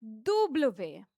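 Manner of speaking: दूबलवे slowly, doo-bluh-vay; teacher spelling out French W. Shown as a demonstration. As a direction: stretch out दूबलवे syllable by syllable. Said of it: "हम W को बोलेंगे दूबलवे".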